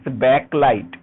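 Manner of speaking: slow, firm "backlight" with a full "back"; correct pronunciation. Shown as a demonstration. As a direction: restate "backlight" slowly, first vowel open. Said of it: "it's pronounced as backlight".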